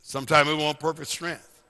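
deliberate, slightly slowed repeat; measured, spelled-out emphasis; real slow. Shown as a demonstration. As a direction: say it slowly so it sinks in. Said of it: "Should I say it real slow?".

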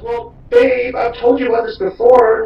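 very high, loud mocking girlfriend voice; girlfriend's reply. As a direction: squeal it like her, mocking. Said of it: "And she goes".

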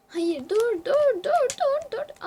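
high, loud panicked stop cries; panicked shouting. Real, not acted. Panicking as players close in.

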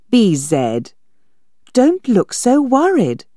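put-on girl laughing off his worry, playful; lightly voiced girl. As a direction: tease him gently. Girl teases B Z.

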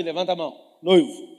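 ordinary talk

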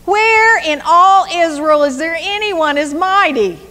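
nanny nanny boo boo, playground jeer; trash talking. Acted. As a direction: rub it in, mocking the guard. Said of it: "This is trash talking at its best".

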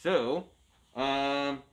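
muffled behind a mask; talking through a Halloween mask; through a face mask. Real, not acted. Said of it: "It's hard to talk with a mask on".

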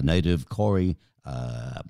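usual speaking voice

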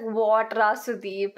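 mock Bangalore Indian English; heavy Indian accent. Recalling how they talked in Bangalore, heavy Indian accent. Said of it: "I had this heavy Indian accent".

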